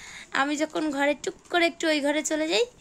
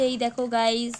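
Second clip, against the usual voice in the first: vlogger intro demo. Shown as a demonstration. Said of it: "এরম করে বল".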